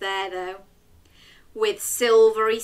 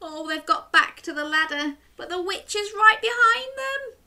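mock alarm; 12 semitones higher than usual. Real, not acted. Suspense for children.

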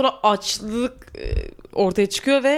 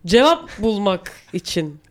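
slow, formal radio host voice; show host intro; slower than usual. Acted. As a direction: welcome listeners slowly.

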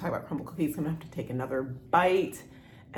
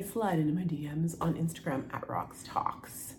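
whisper; 5 dB quieter than usual. Real, not acted. Playful aside plugging her DMs.

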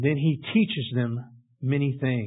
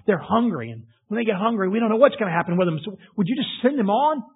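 anxious disciple; 4 semitones higher than usual. Acted. Disciples voiced pleading with Jesus.

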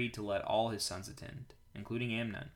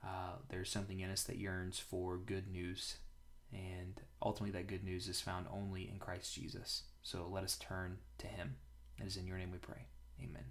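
softer, hushed prayer voice; quiet prayer; 3 semitones lower, 9 dB quieter than usual. Real, not acted. Pastor praying quietly before the scripture reading. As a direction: pray it gently to close.

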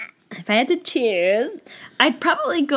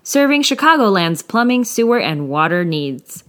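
ad read; 3 dB louder than usual. Acted. Sponsor ad read.

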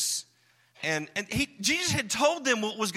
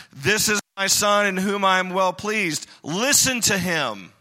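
God shouting down; 5 dB louder than usual. Acted. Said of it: "shouts down and says".

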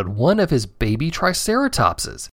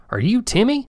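much higher, eager farmer voice; farmer asking; 10 semitones higher than usual. Acted. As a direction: ask in glad surprise.

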